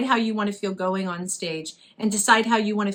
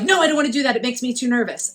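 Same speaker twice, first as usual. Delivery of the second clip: nervous students' protest; 3 semitones higher, 4 dB louder, faster than usual. Retold or imitated. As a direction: voice students balking from nerves. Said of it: "And they're like".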